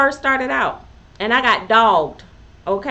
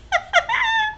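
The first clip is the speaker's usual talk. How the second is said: high-pitched giggle; high laugh; 4 dB quieter than usual. Real, not acted. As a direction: burst into a high little laugh. Bursts out laughing mid-story.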